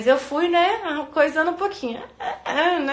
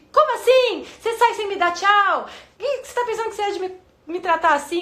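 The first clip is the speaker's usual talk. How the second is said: mock outraged rant; 8 semitones higher than usual. Wife acting out her urge to scold her husband, mock outraged. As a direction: act out the angry wife's inner tantrum. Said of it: "Me deu aquela ânsia que dá na gente de".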